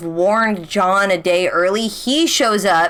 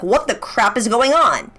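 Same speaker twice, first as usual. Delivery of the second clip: high, bewildered rush of questions; a fan lost in the plot twists; baffled viewer; 8 semitones higher than usual. Retold or imitated. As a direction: pile on the confused questions. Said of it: "and being like".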